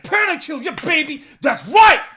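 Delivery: high, very loud triumphant shout; all-out victory yell; freaking out. Retold or imitated. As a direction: scream it like a gamer celebrating a huge play. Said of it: "I was, like, freaking out".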